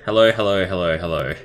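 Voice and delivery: ordinary talk, nothing marked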